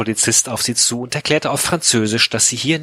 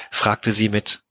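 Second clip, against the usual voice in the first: normal talking voice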